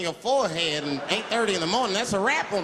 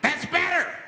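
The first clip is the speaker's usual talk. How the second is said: smug high menace; 12 semitones higher, 5 dB louder, slower than usual. Retold or imitated. Homeless man satisfied.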